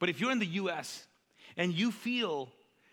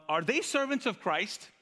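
lightly voiced ranting apostle, pitched higher; Paul's rant; 6 semitones higher, 3 dB louder, slower than usual. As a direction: open the rant with a drawn-out, indignant question. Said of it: "Paul on a rant".

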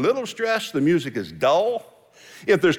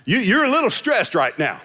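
loving spouse; 5 semitones higher than usual. Retold or imitated. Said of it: "and they'll say".

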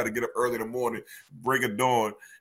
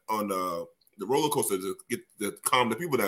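normal talking voice

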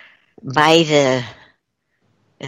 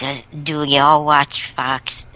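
ordinary delivery

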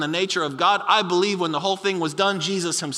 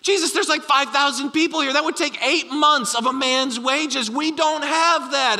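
higher, mock panic; hammed-up alarm at an impossible task; panicked disciples; 5 semitones higher than usual. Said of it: "And the disciples panic".

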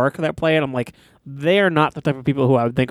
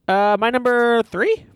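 higher-pitched, over-eager projection; raised voice; 5 semitones higher, slower than usual. Real, not acted. Moving on to the number three pick, raised voice. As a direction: push it out a little too keenly. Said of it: "Why are you yelling?".

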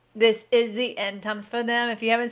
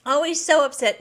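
a lightly put-on mock voice, a bit louder and higher; 5 semitones higher, 4 dB louder than usual. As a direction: ham up the critic's fake pity. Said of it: "I do voices".

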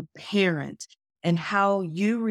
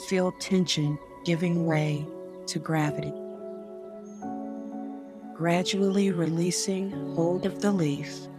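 sleep story narrator. Acted. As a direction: lull them calmly, word by word. Leads a guided meditation.

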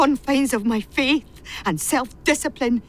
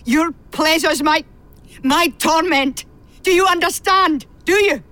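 raised, insistent questions; furious demand; 5 semitones higher, 3 dB louder than usual. Acted. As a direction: hammer the question at her. Agnes raging at Miss Lochran.

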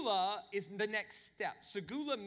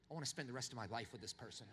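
dreamy laughing aside; 8 semitones lower, 9 dB quieter, faster than usual. Pretend. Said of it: "you're like".

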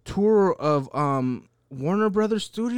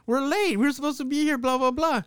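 mock annoyed complaint; 8 semitones higher than usual. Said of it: "He was".

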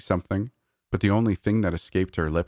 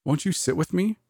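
high diva voice; 12 semitones higher than usual. A narrator's reading. Diva voiced, sweet offer.

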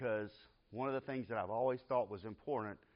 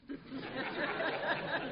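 high airy laugh bursting out; can't help laughing at the memory; burst of laughter; 14 semitones higher than usual. Real, not acted. Preacher telling congregation about daughter, airy laugh.

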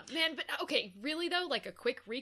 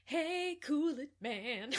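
mock voice; 5 semitones higher, much slower than usual. Second silly take of line.

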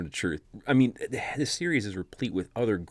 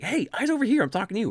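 mock Hermione scolding; 11 semitones higher, faster than usual. Hermione scolds Harry for staring at a girl, mock scolding. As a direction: snap him back to attention. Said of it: "She's like".

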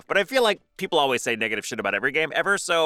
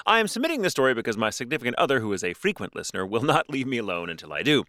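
reading aloud. Acted. Reads listener story.

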